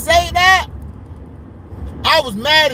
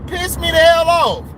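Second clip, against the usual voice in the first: angry; 3 semitones higher than usual. Real, not acted. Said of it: "I'm so mad".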